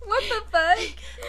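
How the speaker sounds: high, slow drawn-out disbelief; outraged what the fuck; shocked. Real, not acted. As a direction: stretch it out in real shock. Shocked reaction to quote.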